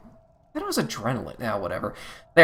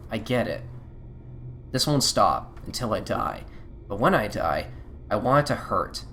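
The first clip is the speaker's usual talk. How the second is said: quiet dream monologue; 4 dB quieter than usual. Acted. May recalling a dream on the bus home, subdued. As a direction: read it like a lonely dream on a bus.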